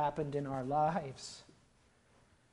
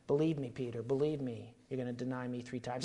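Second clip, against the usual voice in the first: soft, low knowing warning; the Lord's gentle warning; 3 semitones lower, 3 dB quieter than usual. Retold or imitated. The Lord warning Peter, soft and low. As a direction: gently tell him he'll fail. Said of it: "The Lord said to him".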